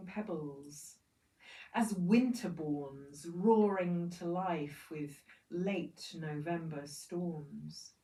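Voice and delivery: measured poetry recital with deliberate pauses; poem reading. Acted. Poet speaks as the river to industrialized peoples, measured poem reading. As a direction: read it as a poem, weighing each image and list. Reads eco poem aloud.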